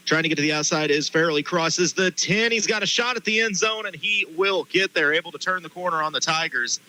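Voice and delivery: rising call as he breaks free; excited play-by-play. Real, not acted. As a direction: build up to the score. Play-by-play run to the end zone.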